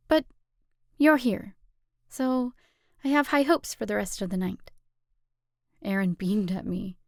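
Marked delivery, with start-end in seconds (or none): 0.1-4.7 softer tone. Acted. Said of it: "tried again in a softer tone".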